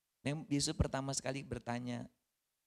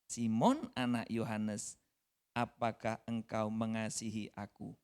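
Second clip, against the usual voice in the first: Jesus asking tenderly once more; slow gentle question; slower than usual. Acted. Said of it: "Untuk ketiga kalinya".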